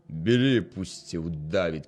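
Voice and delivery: 1 tearful. Acted. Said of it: "крізь сльози промовив шинкар".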